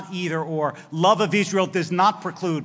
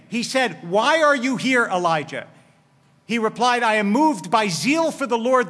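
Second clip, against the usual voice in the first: measured reading of scripture, a touch raised; 2 semitones higher than usual. Acted. Rabbi reads Elijah's story to the congregation, solemn reading. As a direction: read the verse with weight.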